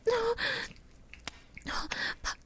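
urgent, breathy half-whisper, breaking into gasps; breathless passion. Acted. Lover to partner in an intimate moment, breathless and pleading. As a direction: pant the words out, pleading and repeating.

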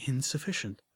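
barely whispered, defeated. Acted. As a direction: breathe the word out in shame. Narrator's despair, whispered.

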